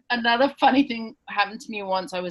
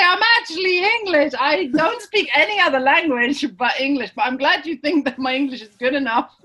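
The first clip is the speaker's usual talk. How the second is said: high, loud, animated protest; mock correcting reply; 6 semitones higher, 5 dB louder than usual. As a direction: play up the correction to the nurse. Voicing what she couldn't say.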